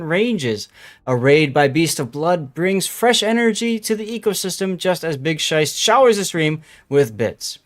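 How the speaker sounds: light nature documentary narrator voice. Pretend. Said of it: "observe chat in its natural habitat".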